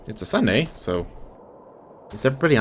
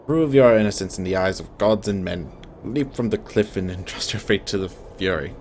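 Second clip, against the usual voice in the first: light stately stage voice; Patrick Stewart. Acted. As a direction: play a grave inquisitor with a measured gravitas. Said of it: "make him sound like Patrick Stewart".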